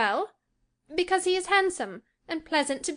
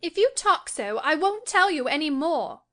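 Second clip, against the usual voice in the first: high, louder petulant retort; peevish; 7 semitones higher, 4 dB louder than usual. A narrator's reading. Cathy threatens to stop confiding in Nelly, peevish. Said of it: "she returned peevishly".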